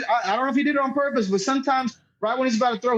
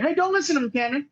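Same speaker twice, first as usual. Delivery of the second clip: retold snap back; 4 semitones higher than usual. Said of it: "Finally, I kinda did snap".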